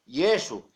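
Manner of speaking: "Yeshua" said YEH-shu, stress first; two syllables in "Yeshua", YEH-shu; original Latin name. Shown as a demonstration. Preacher giving the original name, "Yeshua" as YEH-shu. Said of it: "con el nombre original".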